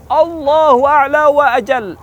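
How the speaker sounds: high, loud, long-drawn cry; crowd shout. Acted. Army answering Abu Sufyan, drawn-out high shout. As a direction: shout it like a whole mountain answering. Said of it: "Segunung semuanya berteriak".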